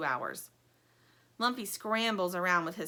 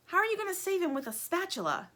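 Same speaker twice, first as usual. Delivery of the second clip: higher, doubtful toy voice; Stingray asking; 10 semitones higher than usual. Acted. Stingray doubts Plastic's spatula plan. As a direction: question the plan, incredulous. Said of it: "asks Stingray".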